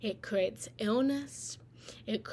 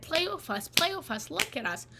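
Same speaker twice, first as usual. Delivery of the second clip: put-on higher-pitched kid tugging for attention; pleading child; 6 semitones higher than usual. Children pulling on their parent, pleading. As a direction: pester a parent like a small child. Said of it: "when we were pulling on our parent and we said".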